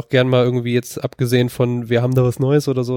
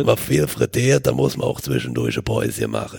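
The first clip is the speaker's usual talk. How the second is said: deep, breathy, with heavy pauses; wheezy dialect speaker; 3 semitones lower than usual. Retold or imitated. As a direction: breathe heavily between words. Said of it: "die schwer atmenden Pausen".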